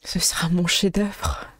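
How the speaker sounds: mad scientist. Acted. Doctor character gloats.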